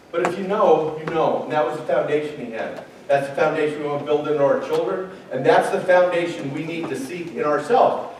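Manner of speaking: hushed. Real, not acted. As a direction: pull them in close and quiet. Sermon drops to hush.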